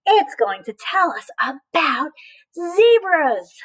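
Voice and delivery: put-on bright read-aloud voice for little kids; reading to children. Teacher reading a zebra book to children. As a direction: read it to a class of five-year-olds.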